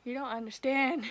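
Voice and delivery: urgent protest. Retold or imitated. Retold protest to nurses.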